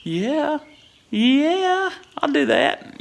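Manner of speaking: high, eager yes-man voice; eager agreement. Retold or imitated. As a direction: squeak out a too-quick yes to the boss. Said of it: "And I was like".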